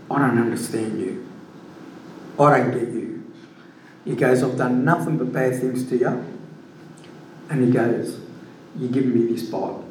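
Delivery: a touch of a stunned colleague's disbelief; bewildered coworker. Retold or imitated. Stunned coworker voiced in story.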